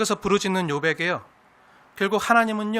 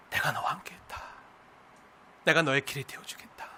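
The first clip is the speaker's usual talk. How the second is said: much softer unvoiced promise; whispered; 6 semitones lower, 9 dB quieter than usual. God promising presence to a struggling believer, whispered. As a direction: whisper it close and comforting.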